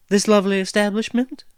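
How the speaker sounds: cheery. Acted. Maya mocking their hole with cheery delight. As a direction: gush over the hole as if it's grand. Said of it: "asked Maya cheerily".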